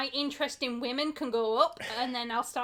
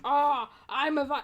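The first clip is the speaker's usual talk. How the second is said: bad Scandinavian accent; 4 dB louder than usual. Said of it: "really bad Scandinavian accent".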